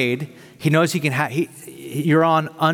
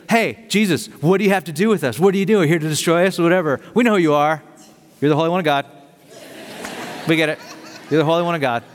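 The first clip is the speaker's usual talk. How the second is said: taunting but respectful demon; 2 semitones higher, faster than usual. Retold or imitated. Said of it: "it's both taunting and respect".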